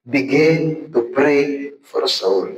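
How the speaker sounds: slow, deliberate sermon point; slow emphatic teaching. Shown as a demonstration. Preacher slowly tells students how to start, plain and measured. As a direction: spell it out word by word, slowly. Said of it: "Ano muna natin gagawin?".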